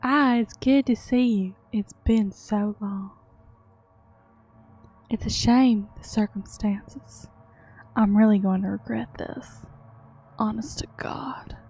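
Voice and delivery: easygoing, goofy Southern twang; Southern accent. Acted. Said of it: "Let's give him a fun accent".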